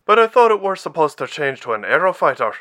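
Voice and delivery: high, loud puzzled objection; loud, high-pitched comrade; Bauer's character voice. A narrator's reading. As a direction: raise the voice and question what happened. Bauer's voice continues after exclaiming.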